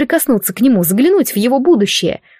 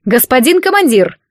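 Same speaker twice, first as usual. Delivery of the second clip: called out higher and louder; calling out; 4 semitones higher, 3 dB louder than usual. Acted. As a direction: shout for the commander. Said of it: "крикнула". (громкий зов к командиру)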